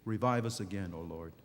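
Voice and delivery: preacher quietly echoing the psalmist's prayer, hushed. Acted. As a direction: pray it under your breath. Hushed prayer after the sermon point.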